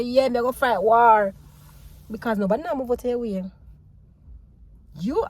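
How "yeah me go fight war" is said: mock battle-ready. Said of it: "put on your vest and say".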